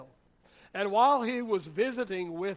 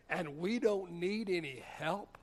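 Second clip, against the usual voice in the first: slow, quieter questioning echo; incredulous echo; 5 dB quieter than usual. Retold or imitated. Jailed man answering his alcoholic brother, incredulous. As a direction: hand the words back slowly as a disbelieving question.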